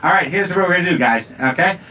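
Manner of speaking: put-on a light Boston accent, plotting rebel rallying the guys; revolutionary conspirator talking in a Boston accent; a hint of a Boston accent, rising on the last line. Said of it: "I like to say this with my Boston accent".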